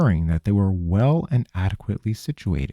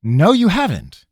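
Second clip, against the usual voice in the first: high, louder scoffing denial; 10 semitones higher, 5 dB louder than usual. A narrator's reading. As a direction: scoff loudly in disbelief. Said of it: "Ravenna guffawed".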